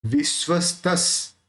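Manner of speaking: विश्वस्तस with s joined to t, slowly; slow demo of विश्वस्तस; slow syllable split. Shown as a demonstration. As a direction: break विश्वस्तस into its parts. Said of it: "स को त के साथ लेना है".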